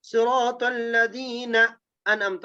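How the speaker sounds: صراط الذین drawn out and run on into انعمت; joined recitation. Shown as a demonstration. Teacher showing students how to join the words, linked slow reading of صراط الذین انعمت. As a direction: read صراط الذین انعمت slowly as one linked phrase. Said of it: "اس کو ملا کر پڑھیں گے".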